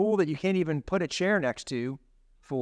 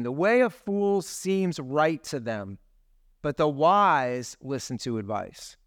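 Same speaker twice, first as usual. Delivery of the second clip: scripture reading; slower than usual. Real, not acted. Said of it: "Proverbs twelve fifteen".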